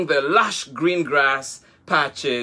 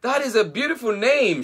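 beaming; 9 semitones higher, faster than usual. Acted. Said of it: "she beamed".

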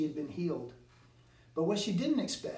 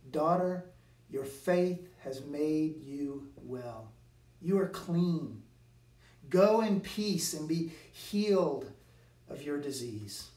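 tenderly. Retold or imitated. Jesus to the healed woman, slow tender blessing. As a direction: speak like blessing a frightened woman. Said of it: "he says to her tenderly".

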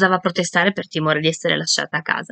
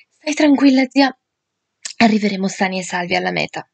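ansimando un po' mentre pedala; col fiatone. Acted. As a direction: parla a corto di fiato. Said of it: "con il fiatone". (il nipote rassicura la zia, col fiatone)

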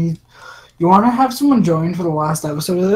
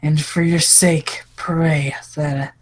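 evil woman voice; 2 semitones lower than usual. Acted. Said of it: "let me just randomly come up with a voice".

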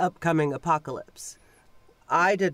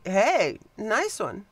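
sarcastic; 5 semitones higher, much slower than usual. Retold or imitated. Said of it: "point at and go".

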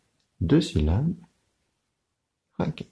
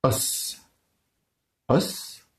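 whispered word; 3 semitones higher, 4 dB quieter than usual. Shown as a demonstration. Teacher to pupils, whispered Os. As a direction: whisper Os twice. Counting syllables for children.

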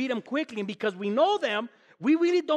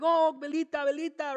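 mock lament; 6 semitones higher than usual. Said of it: "I was like".

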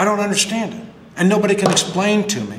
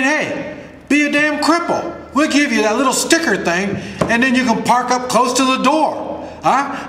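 mocking high sneer, raised pitch; sarcastic; 6 semitones higher than usual. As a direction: scoff at the offer, pitched up. Mocking the healthcare system's offer.

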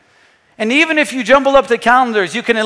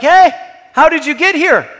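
higher-pitched puzzled call; mildly raised, questioning crowd voice; acted surprise; 5 semitones higher, 5 dB louder than usual. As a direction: act out a surprised crowd member. Crowd surprised to find Jesus.

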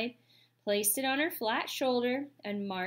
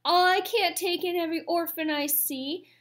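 high, loud protest; squawking goose; 7 semitones higher, 5 dB louder than usual. A narrator's reading. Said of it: "squawked the goose".

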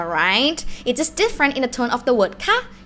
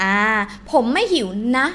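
cute, friendly; much faster than usual. Shown as a demonstration. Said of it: "it's cuter".

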